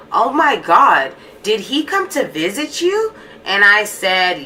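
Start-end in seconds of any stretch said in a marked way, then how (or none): 0.1-3.1 higher, slow, drawn-out gasp of disbelief; mock-shocked girlfriend voice. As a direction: imitate her shocked disbelief. Girlfriend learns he visited her.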